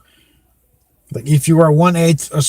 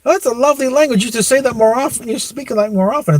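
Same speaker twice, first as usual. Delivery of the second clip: quoting Michael Douglas; 8 semitones higher, faster than usual. Retold or imitated. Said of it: "And it's like".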